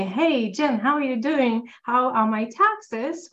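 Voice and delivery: imitating a cheery, hopeful client, slowing at the end; mock-bright sing-song check-in, dragging the last question; light imitation of a chirpy caller asking about taxes; upbeat hopeful client. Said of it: "with this intonation".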